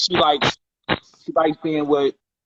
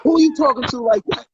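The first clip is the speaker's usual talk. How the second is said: heated retort; 6 semitones higher, faster than usual. Retold or imitated. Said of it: "I said".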